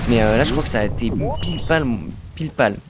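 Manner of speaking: lisping tongue slip on poil. Real, not acted. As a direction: slip on pile poil, said pile pal. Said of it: "Je zozote".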